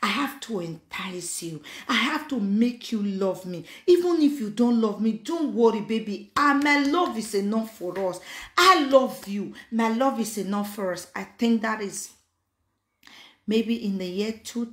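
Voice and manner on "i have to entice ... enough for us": mocking African man. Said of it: "They say".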